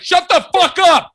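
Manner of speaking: high mock shout from the back; imagined heckler. Fed-up traveler at the back to the kid, mock shout. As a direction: yell it over the line, high-pitched. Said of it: "somebody from the back is like".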